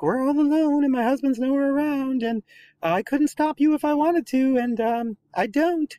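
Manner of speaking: high, loud, teasing seductive lady; breathy seductress. Retold or imitated. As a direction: purr it like a flirting temptress.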